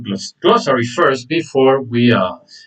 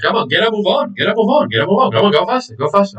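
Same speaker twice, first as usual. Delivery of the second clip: higher, repeated hurry-up prodding; acted urging; 6 semitones higher than usual. Shown as a demonstration. Teacher showing the idiom for going fast, urging. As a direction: chivvy someone along with raised pitch.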